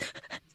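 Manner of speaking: very quiet suppressed snickering, imitated; imitated stifled laughter. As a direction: mimic muffled laughter that could pass for sobs. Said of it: "there was, like, this".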